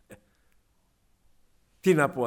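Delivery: ordinary talk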